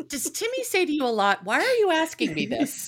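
teasing mock exasperation. Teasing with the husband's quote.

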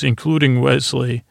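lightly imitated deadpan warrior; a hint of a Klingon officer's manner; Worf. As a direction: quote it with a slight touch of gruff seriousness. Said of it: "just the way Worf said this".

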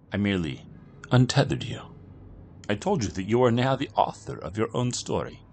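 lightly voiced, composed European gentleman; calm and cryptic, unhurried; mysterious stranger. Kino calmly answering Jack, lightly voiced composed stranger.

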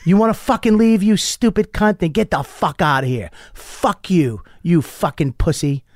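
mock angry tirade, drawing out the insults; retold yelling. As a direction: imitate an old man tearing into a kid. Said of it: "he started yelling at this kid".

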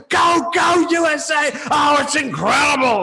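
high, shouted goal call; fired-up commentator losing his mind; Ian Darke. Retold or imitated. Imitating the commentator on another goal, wildly excited. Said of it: "Ian Darke is losing his mind".

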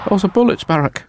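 high put-on wife voice; wife alarmed. Wife telling Barack these are bullets, high put-on voice. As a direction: pitch it up in alarm. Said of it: "range of accents".

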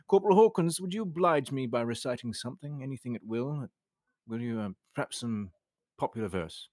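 put-on clipped RP accent, powered through. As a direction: speak in a plummy RP accent. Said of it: "It's my R P accent".

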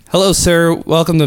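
high, customer-service politeness; polite phone greeting. Retold or imitated. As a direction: greet the angry caller sweetly.

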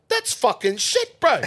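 put-on loud, high, drawn-out Kiwi accent. Old hand dismissing the kid's straw box, Kiwi accent. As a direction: pass blunt judgement in a slow mock Kiwi accent. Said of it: "this old Kiwi fella there".

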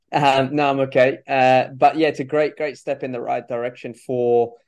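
throat still catching after choking; recovering from choking. Real, not acted. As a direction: clear the throat and push on. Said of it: "I'm just, uh, choking over here".

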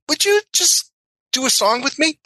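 high-pitched starstruck request; eager plea. Retold or imitated. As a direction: beg your hero with giddy nerves. Nervously asking idol to jam.

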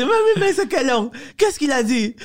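very high, baffled laughing voice; squeaky-high mock disbelief; imitating laughing father. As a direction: act out dad helplessly amused and confused. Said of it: "il commence à rire".

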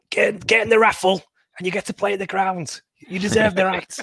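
high mock pitchman voice; Paul Cook impression. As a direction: hype it like a manager's sales pitch. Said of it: "you need Paul Cook to say".

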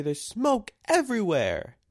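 high, loud cry for help; panicked mayday yell. Retold or imitated. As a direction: shout mayday like the plane's going down. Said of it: "that's what Steve Carell says in this shot".

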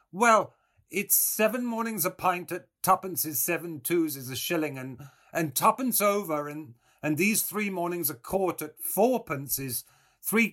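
put-on high, loud old woman reckoning aloud; old milkwoman. A narrator's reading. Old woman counting up what is owed, high and halting.

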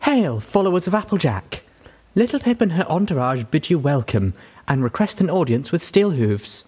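loud, high, ringing herald voice; ringing formal announcement. Acted. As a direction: proclaim it like a gracious herald. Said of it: "satin voice rang out".

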